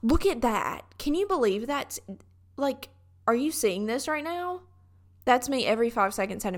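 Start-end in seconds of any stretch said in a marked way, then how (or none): 0.0-4.6 high-pitched, gushing disbelief; mock-amazed museum nerd; annoying museum enthusiast. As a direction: play yourself demanding everyone share your amazement. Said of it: "I'm annoying at museums".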